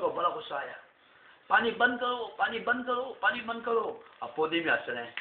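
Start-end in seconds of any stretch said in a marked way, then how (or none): 1.5-4.0 high, loud panicked cries; panicked pleading. Acted. King on his floating throne begging Potne, panicked. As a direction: beg desperately to stop the water.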